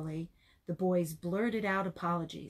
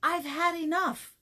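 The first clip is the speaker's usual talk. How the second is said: put-on beaten boy gives up; 8 semitones higher, 4 dB louder than usual. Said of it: "until the boy said".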